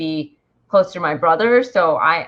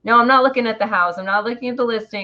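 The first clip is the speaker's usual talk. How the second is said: quick, slightly raised protest; brisk re-enacted protest to mom; retold refusal; 4 semitones higher, faster than usual. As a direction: refuse in a hurry, retelling it. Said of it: "And I'm like".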